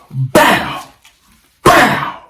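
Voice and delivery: mimicked bang of a gunshot; imitated gunshot. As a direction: punch out a mock gunshot, pause, then another.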